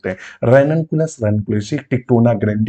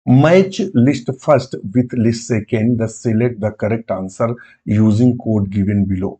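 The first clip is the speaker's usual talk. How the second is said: reading the English question very slowly; slow reading aloud; much slower than usual. Shown as a demonstration. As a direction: read the question out word by word. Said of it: "पहले और दूसरे को कराना है".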